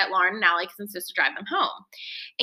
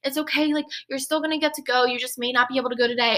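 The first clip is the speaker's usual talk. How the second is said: consoling; 4 semitones higher, faster than usual. Retold or imitated. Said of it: "trying to console me".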